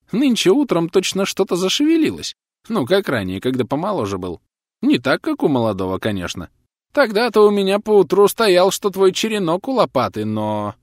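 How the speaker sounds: high, eager character voice; boasting neighbour. A narrator's reading.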